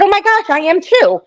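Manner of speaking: high, excited exclamation; retold delight. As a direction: act out a thrilled discovery. Retells delighted reply to waiter.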